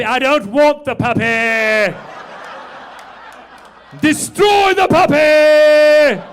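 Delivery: hammed-up heartless villain; cartoon villain. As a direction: snarl it like a Disney villain.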